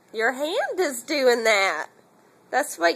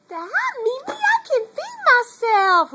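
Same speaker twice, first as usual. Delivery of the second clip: put-on higher, louder little-kid voice; voicing the baby; 10 semitones higher, 3 dB louder, faster than usual. Mother speaking for baby Trey to Mimi, high kid voice.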